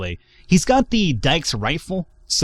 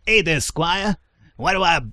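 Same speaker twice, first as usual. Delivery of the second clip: a lightly raised, friendly character voice; Moses voice; 4 semitones higher than usual. Acted. Game player voicing Moses to the squire, lightly raised friendly voice. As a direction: greet the squire with a light lift. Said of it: "that's my Moses fucking voice".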